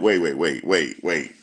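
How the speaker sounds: ordinary talk, nothing marked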